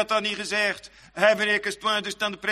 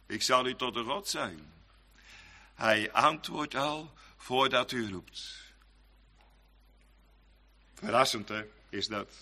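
softer and lower, reverent; hushed preaching; 9 semitones lower, 7 dB quieter than usual. Acted. Preacher whispers God's answer to the congregation, softer and lower. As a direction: drop to an awed hush.

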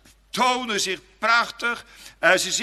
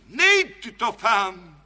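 coaxing tempter; 5 dB louder, slower than usual. Acted. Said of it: "dat hij zegt".

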